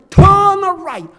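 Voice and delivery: loud, high British GPS voice, crisp "Turn right"; British accent. Retold or imitated. Old GPS giving the driver directions, British accent. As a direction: imitate a British satnav, loud and exaggerated. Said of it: "영국 액센트한데".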